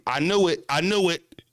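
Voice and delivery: a hint of a smug accusing fan; mild mock fan gloating; toxic fan. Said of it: "toxic fan".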